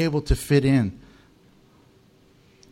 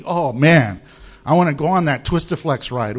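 mock eager kid; 4 semitones lower than usual. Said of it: "and you're eagerly".

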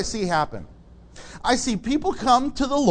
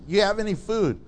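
condescending; 5 dB quieter than usual. Acted. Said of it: "Kind of condescending".

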